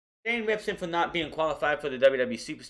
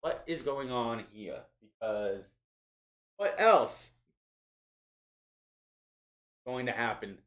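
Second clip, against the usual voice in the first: slow, drawn-out mock pondering; lightly voiced puzzled Heyman; mock puzzled wondering; 4 semitones lower, slower than usual. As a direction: muse it out slowly like a confused manager.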